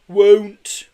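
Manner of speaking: loud, high defiant shout; defiant yell. A narrator's reading. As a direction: yell the refusal. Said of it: "yelled Hewitt Ben defiantly".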